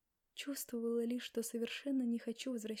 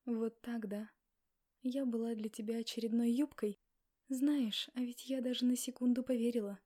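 louder, rising hurt accusation; louder wounded reproach; hurt anger; 6 dB louder than usual. Acted. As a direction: confront him, louder with each line. Heroine confronts Max angrily.

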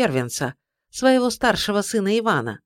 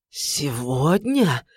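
slow lower disbelieving echo; stunned echo; 4 semitones lower, much slower than usual. A narrator's reading. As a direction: repeat it in dread. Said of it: "переспросил царь".

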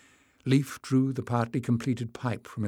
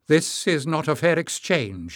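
higher and louder protest; exclaimed loudly; 5 semitones higher, 5 dB louder than usual. A narrator's reading. Tyrrell protests the exchange, higher and louder. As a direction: throw the complaint out with force. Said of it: "he exclaimed loudly".

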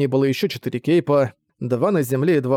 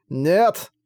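short, higher growled refusal; 4 semitones higher than usual. Acted. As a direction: growl it out through pain. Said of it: "прорычал Пафос".

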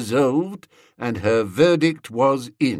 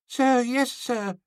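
put-on high small boy voice; barked sir yes sir; 12 semitones higher than usual. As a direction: snap it back like a little cadet. Small boy answers dutifully.

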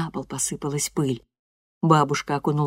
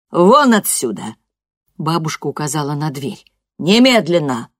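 angry order; 7 dB louder than usual. Acted. Grandmother orders girl out.

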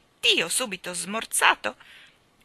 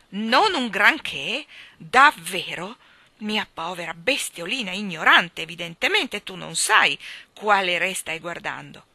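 loud, affronted king, drawing out the first words; shouting; 8 dB louder than usual. A narrator's reading. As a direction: raise your voice in haughty outrage. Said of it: "gridò il re". (gridato, con sdegno regale)

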